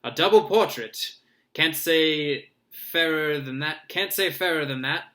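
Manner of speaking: loud, high hearty showman. Acted. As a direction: sell it like a showman. Lockhart showy.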